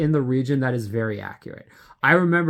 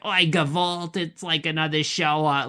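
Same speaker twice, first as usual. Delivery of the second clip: put-on Jewish accent; 3 semitones higher than usual. Showing which accent may be diminishing, imitation Jewish accent. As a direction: put on a New York Jewish accent, lamenting. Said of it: "the Jewish accent".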